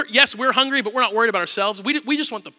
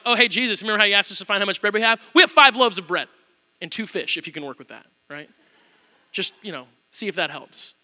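sarcastic. Retold or imitated. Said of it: "almost sarcastically".

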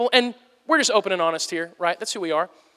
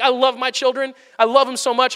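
bright and a touch higher, beaming; gushing parent; 4 semitones higher than usual. Acted. Father on good days loving his children, gushing and higher. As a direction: gush over your kids. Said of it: "some days I'm like".

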